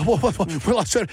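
imitated stutter on a repeated word; Tom Hanks stuttering. Host showing how an actor stutters in a film role, mock stutter. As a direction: mimic an actor stumbling over one word. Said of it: "like, stuttering".

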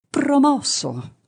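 high, drawn-out shout of a verdict; shouted back. A narrator's reading. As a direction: yell the pass back, high and stretched. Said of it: "gli urlò di ritorno".

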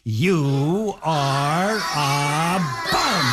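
very slow, stretched-out insult; drawn-out put-down. Acted. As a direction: savour each word of the put-down. Princess's punchline to Ronald.

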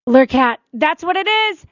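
excited relief. Real, not acted. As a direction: squeal it out, thrilled the name is found. Someone supplies the forgotten name.

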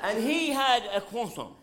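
croissant said kwa-son, French style through the nose; croissant as kwa-son, half up the nose; nasal French croissant. Shown as a demonstration. Comic bragging his date's French order, croissant said kwa-son. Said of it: "halfway up your nose".

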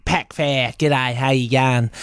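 mock true-blue Aussie greeting, slightly low; a touch of broad Aussie accent. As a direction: lightly put on an Australian drawl. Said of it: "true blue Aussie as they come".

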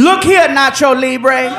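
lightly voiced sassy black woman, refusing; a touch of attitude, head shaking no. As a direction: refuse the job with lightly played sass.

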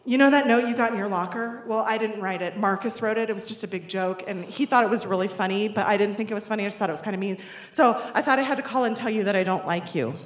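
imitating a boy's rushed confession; one-breath confession. Boy calling to admit the note was a joke, hurried. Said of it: "he took a big breath".

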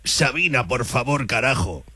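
low, lightly raspy growl like a singer's; imitation of a Spanish singer's voice. Shown as a demonstration. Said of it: "con la voz del cantante".

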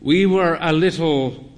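put-on high, slow, frail old lady fading out; weary old dear, fading; old mother. A narrator's reading. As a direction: trail off wearily. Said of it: "she said".

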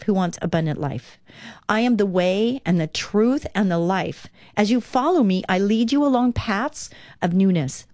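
calm devotional read-aloud. Acted. Reads Jesus's words from devotional.

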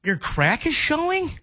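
high, slow questioning letdown; disappointed. Shown as a demonstration. Host demonstrating disappointment to co-host, disappointed. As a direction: stretch it out, rising in disbelief at the end. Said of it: "Doesn't that sound like I'm disappointed?".

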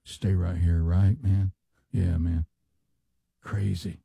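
laid-back bro chat with pauses; imitating two podcast guests reminiscing; mocking podcast bros. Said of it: "they all just kinda stay right here".

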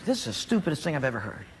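furious. Acted. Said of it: "and he's furious".

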